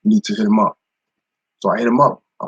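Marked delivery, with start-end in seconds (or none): 0.0-0.8 urgent prod. Retold or imitated. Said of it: "He was like".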